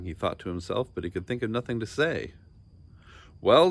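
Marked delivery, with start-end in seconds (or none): 3.4-3.7 loud, higher, rising demand. A narrator's reading. King losing patience with the silent boy, loud demand. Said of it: "demanded the king".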